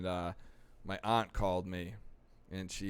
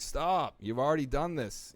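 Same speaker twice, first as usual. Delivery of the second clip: mock stern; 5 semitones higher than usual. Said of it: "They're like".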